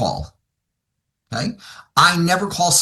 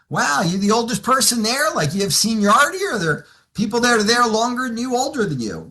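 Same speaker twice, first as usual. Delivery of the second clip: higher, offhand curiosity; casual; 5 semitones higher than usual. Acted. Coach probing a client about older coworkers, casual. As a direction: slip the questions in casually. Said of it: "I do it very casually".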